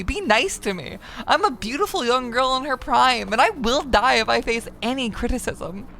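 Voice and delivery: mock fragile girl. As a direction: play a touchy girl begging for kindness. Playing fragile young girl persona.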